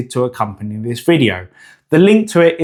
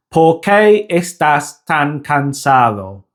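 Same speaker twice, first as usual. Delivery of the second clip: slow Spanish in an English accent, puffing p, t, k; slower than usual. Shown as a demonstration. Teacher demonstrating learners' bursts of air, English accent. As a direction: say the Spanish with English aspirated consonants and vowels. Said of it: "spoken with an English accent".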